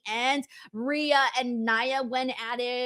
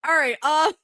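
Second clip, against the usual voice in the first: laughing as the show resumes; amused laughing; slower than usual. Real, not acted. Host still tickled by the chat, amused laughing. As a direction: get back to business through a laugh. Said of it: "I'm just laughing at the chat".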